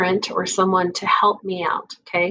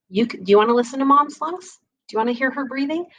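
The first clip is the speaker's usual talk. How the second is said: higher, quick and eager question; upbeat kid-directed invite; 5 semitones higher, faster than usual. Shown as a demonstration. Nurse inviting a child to listen to mom's lungs, eager and higher. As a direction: make it sound like a treat. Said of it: "And I may even tell them".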